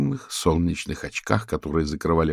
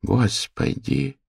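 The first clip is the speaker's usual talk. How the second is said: slow, drawn-out gasp of shock; shocked exclamation; 6 semitones higher, much slower than usual. Acted. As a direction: cry it out in horror. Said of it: "воскликнула Дейзи".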